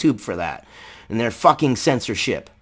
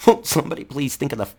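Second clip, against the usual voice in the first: mock hysterical parent; 2 semitones higher than usual.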